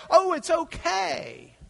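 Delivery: high, loud, drawn-out allowance; mock permission. God changing his mind tomorrow, loud drawn-out mock approval. God imagined casually reversing a command.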